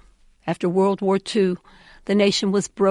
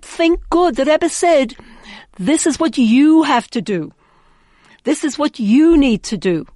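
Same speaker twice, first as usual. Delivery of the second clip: insistent urging; 6 semitones higher, 5 dB louder than usual. Retold or imitated. Rebbe's insistent instruction retold.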